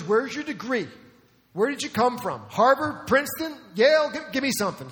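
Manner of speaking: rising, mocking demand for a degree; mocking challenge. Critics demanding to know Jesus' school, a rising mocking challenge.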